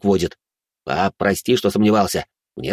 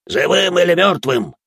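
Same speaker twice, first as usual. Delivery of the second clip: snarling demon; 9 semitones higher, 3 dB louder than usual. Acted. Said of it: "оскалился тощий".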